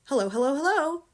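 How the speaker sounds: high, loud parrot call; parrot's greeting from up the chimney. Acted. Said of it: "came the voice again".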